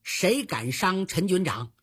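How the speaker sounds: acted stern warning, rising at the end; stern threat. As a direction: start firm, then pitch up on the threat. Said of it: "厉声说道".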